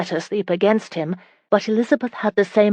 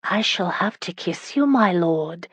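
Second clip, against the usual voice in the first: mildly mock-resigned, sighing tone. Wife agrees to kiss her lord, mock sigh. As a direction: sigh it as if it were a chore. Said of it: "said with a mock sigh".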